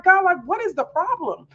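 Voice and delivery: high pleading, fading back toward normal; exasperated prayer to God. Retold or imitated. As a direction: cry out at God in frustration. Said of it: "And so I'm like".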